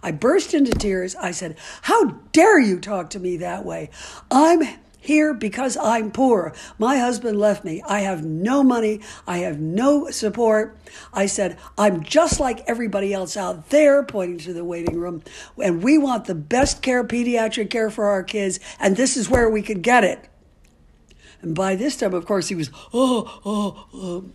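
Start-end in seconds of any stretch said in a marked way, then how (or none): 1.8-14.0 mildly raised, indignant retelling; retold angry outburst. Mother retelling her outburst at the pediatrician, mildly raised. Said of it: "I yelled at him". 15.6-20.3 mildly raised, indignant retelling; retold angry outburst. Mother retelling her outburst at the pediatrician, mildly raised. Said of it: "I yelled at him".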